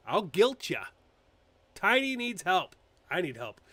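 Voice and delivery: usual speaking voice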